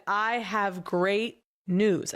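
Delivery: very drawn-out mock announcement; slow, full-throated imitation of elation. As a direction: stretch each word, imitating an elated accountant. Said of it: "Full-throated".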